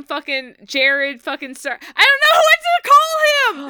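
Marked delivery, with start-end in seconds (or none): 2.0-3.7 fast, high, loud excited cry; freaking out. Real, not acted. Fan yelling about the actor's ponytail reveal, freaking out. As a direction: blurt it out in a giddy shriek. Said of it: "I'm already freaking out".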